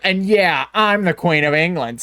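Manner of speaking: dry sarcastic brag. Retold or imitated. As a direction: say it like you don't mean it.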